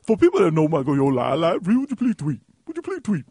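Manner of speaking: mocking caricature, pitch climbing at the end; exaggerated imitation of a co-host; hammed-up mocking impression; Michael Yo impression. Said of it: "That's what you sound like".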